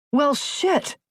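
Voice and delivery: high, panicked cry; panicked outcry. A narrator's reading. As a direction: blurt it out in shock. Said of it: "Cunningham cried".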